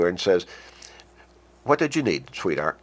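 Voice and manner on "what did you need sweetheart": tender, attentive husband; affectionate and ready to listen; loving, respectful. Shown as a demonstration. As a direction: lift the question, then drop softly on the endearment. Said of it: "that's loving tone there, respectful tone".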